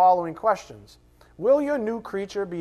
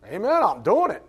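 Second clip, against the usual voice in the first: high, loud, gung-ho reply; mock-enthusiastic yes, swooping up high; eager obedience; 5 semitones higher, 5 dB louder than usual. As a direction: jump at it gladly. Eager answer to God's command.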